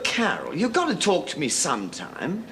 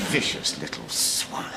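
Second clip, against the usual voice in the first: breathless words through laughter; real laughter swallowing the words; laughing; 10 semitones lower, 4 dB quieter than usual. Real, not acted. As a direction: say it while still laughing. Still laughing at his own joke.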